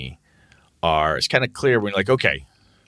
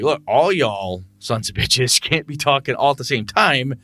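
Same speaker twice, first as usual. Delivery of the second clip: higher, faster scolding of rowdy players; mock exasperated game master; 4 semitones higher than usual. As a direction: scold the table like an outraged GM.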